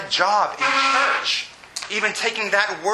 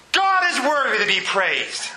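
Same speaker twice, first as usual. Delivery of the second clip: proclamation; 3 semitones higher than usual. Retold or imitated. Restates what the room shouted.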